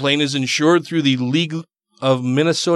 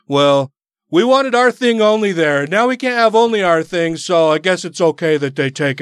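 mock Christian voice; 3 semitones higher, 3 dB louder than usual. Mocking upset Christians' voice.

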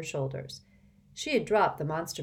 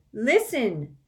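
insistent; 6 semitones higher, 7 dB louder than usual. A narrator's reading. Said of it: "said Harry again".

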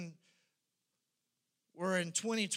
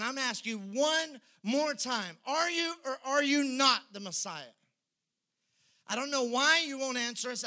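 pressing high priest; 8 semitones higher, 6 dB louder than usual. Acted.

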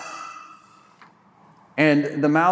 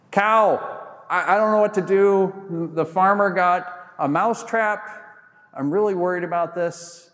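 worried mouse; 4 semitones higher than usual. Acted. Mouse pleads with the cow.

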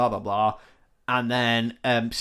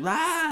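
mock scream.

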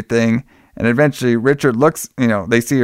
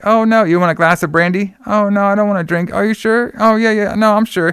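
coy woman voice; 6 semitones higher than usual. Retold or imitated. Linda voiced coy, higher.

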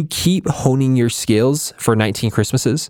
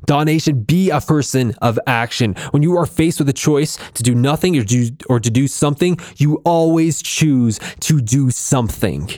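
higher, pumped-up pep talk; rally the viewers to take action; real burst of motivational fire; fired up; 3 semitones higher than usual. Real, not acted. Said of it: "Sorry, I got a little fired up there".

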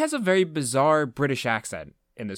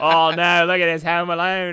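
louder, higher hammed-up Irish; a jokey Irish accent, higher and louder; mock Irish accent; 6 semitones higher, 7 dB louder than usual. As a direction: exclaim in an overdone Irish lilt. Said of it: "she says something with an Irish accent".

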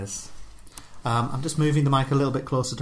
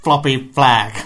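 louder mock American drawling cop; silly cop accent; 7 dB louder than usual. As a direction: play a hammed-up American traffic cop. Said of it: "in a silly accent".

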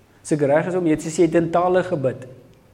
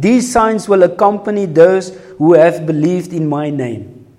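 louder, higher, fired-up scripture reading; excited; 4 semitones higher, 8 dB louder than usual. Real, not acted. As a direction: preach it with rising excitement. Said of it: "now I'm getting excited".

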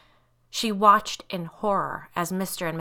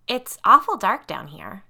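higher, louder grumble; complaining; 4 semitones higher, 7 dB louder than usual. A narrator's reading. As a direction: complain uneasily about the place. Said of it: "Allison complained".

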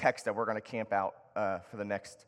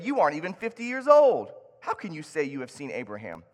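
indignant crowd; 4 semitones higher, 7 dB louder than usual. Acted. Religious leaders challenge Jesus.

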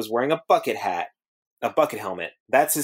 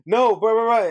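Patrick impression; 8 semitones higher, 4 dB louder than usual. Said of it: "then Patrick says something, is like".

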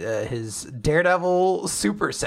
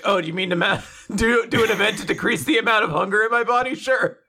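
mock dramatic Creed; 3 semitones higher, faster than usual. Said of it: "quote-unquote dramatic line".

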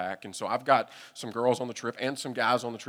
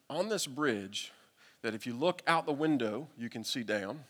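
slow telling; 3 dB quieter than usual. Real, not acted. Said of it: "bridge drop, said slowly".

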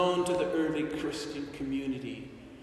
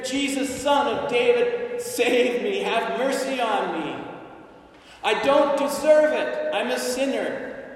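pleading beggar; 4 semitones higher than usual. Acted. Preacher voicing the blind beggar.

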